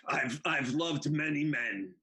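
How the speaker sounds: raspy, slow smoker's voice; smoker's rasp. Retold or imitated. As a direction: gravel it out like a heavy smoker. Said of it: "she had the smoker's voice".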